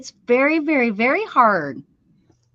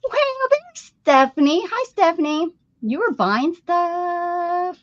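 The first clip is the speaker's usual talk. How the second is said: excited greeting; 9 semitones higher, slower than usual. Real, not acted. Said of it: "greeting viewer".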